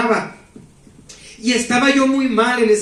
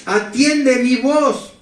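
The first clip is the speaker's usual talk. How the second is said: slow, solemn, lightly raised angel voice; 2 semitones higher, slower than usual. Retold or imitated. Angel voice speaking to the troubled young man, slow and solemn. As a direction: call him by name slowly, like a messenger from above. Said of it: "y me dice esa voz".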